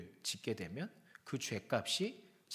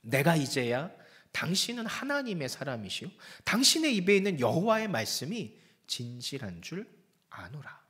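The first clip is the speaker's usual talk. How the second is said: solemn confession; 5 dB louder than usual. Acted. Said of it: "이렇게 고백하죠".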